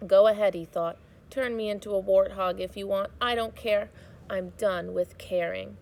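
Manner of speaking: put-on steady storybook reading for children; read-aloud narration. A narrator's reading. Teacher reading a chapter aloud to students, storybook narration. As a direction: read the chapter to the class, gently paced.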